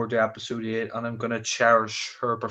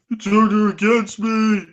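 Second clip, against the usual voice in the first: laughing; 10 semitones higher, 10 dB louder than usual. Real, not acted. Laughing burst.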